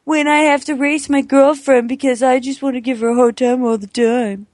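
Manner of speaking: lightly mocking boyfriend impression; a light send-up of his whiny boasting; impersonating boyfriend. Girlfriend teasing her boyfriend by mimicking him, lightly mocking. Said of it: "amazing impersonation of me".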